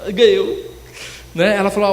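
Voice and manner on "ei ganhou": high, loud whoop of joy; excited re-enacted holler; shouting from the bathroom. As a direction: yell out in celebration from another room. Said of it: "eu já gritei lá no banheiro".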